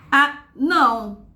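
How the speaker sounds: slow, astonished "A, não!"; astonished exclamation. Shown as a demonstration. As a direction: exclaim it with shock, drawing it out. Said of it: "Tipo, com espanto".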